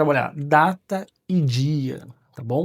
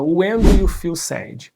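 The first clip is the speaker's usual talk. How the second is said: slow model question; 3 semitones higher, 7 dB louder, slower than usual. Shown as a demonstration. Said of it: "alguém fala assim".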